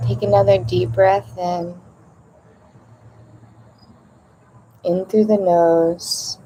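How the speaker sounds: calm breathing guidance with long pauses; guided meditation. Acted. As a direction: ease listeners into each breath, unhurried.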